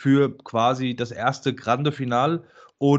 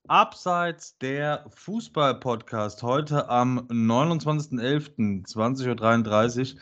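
slow announcer read of date and show; podcast host intro; slower than usual. Acted.

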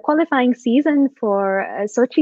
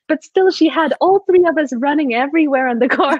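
laughing; 5 semitones higher than usual. Real, not acted. Laughing while recalling badminton game.

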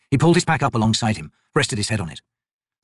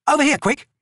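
calling out. Acted. Picker calls the wizard.

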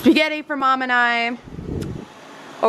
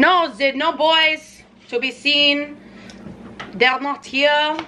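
put-on slow, loosely French accent; put-on odd accent; 4 semitones higher, slower than usual. Cook finding no boys to help, slow put-on accent. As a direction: report it in a muddled mock French accent. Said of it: "I don't know what accent I'm speaking in".

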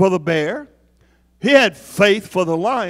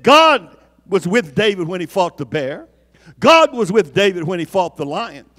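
louder, driving the point home again; repeated louder; 5 dB louder than usual. Real, not acted. Preacher repeats it louder for the congregation. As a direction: hammer it home to the doubters. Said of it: "I'm gonna repeat that for some of y'all".

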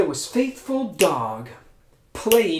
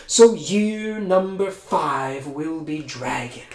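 emperor proclaims; slower than usual. Acted. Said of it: "the emperor said".

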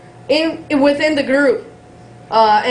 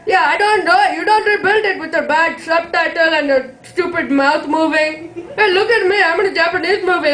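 a hammed-up taunting villain; gloating button pusher; 3 semitones higher than usual. Same gloating guy continues.

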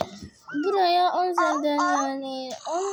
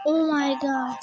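shocked exclamation; 4 dB louder, slower than usual. Real, not acted. Shocked by scary sight.

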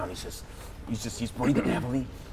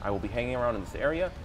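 a sheepish wizard in orc disguise; Jeff disguised as orc. Acted. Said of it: "turns to you like".

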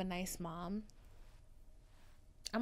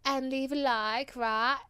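put-on African accent; 4 semitones higher than usual. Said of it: "my African accent just then".

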